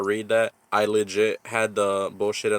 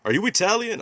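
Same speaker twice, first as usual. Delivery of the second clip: lilting, much higher-pitched mock teacher's question; high, eager retold question; 11 semitones higher than usual. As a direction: imitate an intrigued teacher, pitch jumping up.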